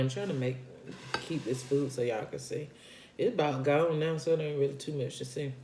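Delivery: talking while eating; mouth full. Real, not acted. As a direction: talk through a mouthful of food. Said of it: "This is my first time eating today".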